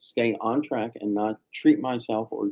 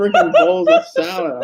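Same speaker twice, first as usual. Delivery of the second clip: very high, squeaky laugh on the words; words swept up in laughter; 6 dB louder than usual. Real, not acted. Laughing complaint.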